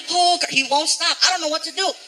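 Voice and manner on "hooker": high, drawn-out bratty chant; stretched, repetitive kid whine; kid throwing a fit. Acted. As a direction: chant it like a child having a tantrum. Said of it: "He throws a fit".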